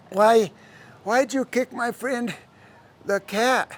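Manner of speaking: put-on soft, halting child voice; upset little girl. Girl asking why her cat was kicked, soft and halting. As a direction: falter softly between broken phrases.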